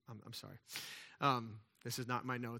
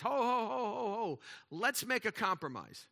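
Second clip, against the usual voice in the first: bear voice; 6 semitones higher than usual. Acted.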